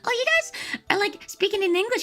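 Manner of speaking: high, sweet auntie voice; imitating the boss. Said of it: "like, Chinese auntie".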